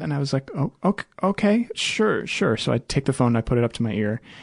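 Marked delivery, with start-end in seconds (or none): 0.5-2.6 dazed, very high and very slow, drawn-out. Retelling their answer to an upset woman handing over her phone: mock-dazed reply. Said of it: "I'm still a little dazed".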